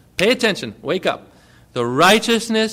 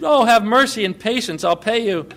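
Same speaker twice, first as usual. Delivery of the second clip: pleading; 4 semitones higher, 4 dB louder than usual. Acted. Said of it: "And the man pleaded".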